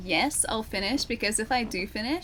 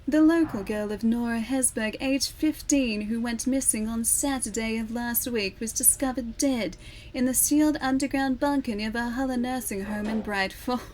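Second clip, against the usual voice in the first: newsreader voice. Shown as a demonstration. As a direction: stretch the ends of words like a newscaster. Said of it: "drag out the ends of words".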